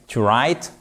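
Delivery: "to write" beginning on R, W dropped; silent W. Shown as a demonstration. Teacher repeating the example, write without W. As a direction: say write like "rite". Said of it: "vous ne prononcez pas le W".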